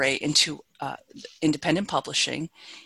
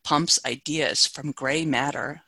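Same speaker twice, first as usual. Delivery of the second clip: measured, deliberate poem reading; poetry reading. Acted. Reads her own poem aloud.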